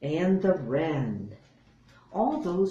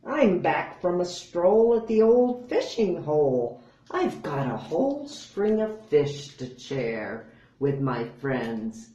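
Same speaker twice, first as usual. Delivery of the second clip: louder cheery badger; hearty badger voice; 4 dB louder than usual. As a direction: boom it out proudly. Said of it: "badger speaks".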